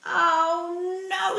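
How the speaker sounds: loud, high cry of dismay; exasperated Mister Bear. Acted. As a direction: groan it out like a fed-up bear. Fed-up bear exclaims in story.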